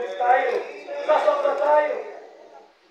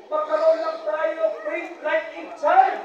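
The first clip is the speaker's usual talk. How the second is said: quoted saying; 5 semitones higher, 3 dB louder, slower than usual. Retold or imitated. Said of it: "sabi nga".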